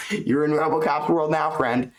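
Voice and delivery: mock commentator savouring the calf damage; Rogan-style hype. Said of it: "And the one that goes".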